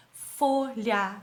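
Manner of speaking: "folha" split into fo, lha; syllable by syllable. Shown as a demonstration. Teacher showing a two-syllable word, syllable by syllable. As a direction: say "folha" in two separate beats.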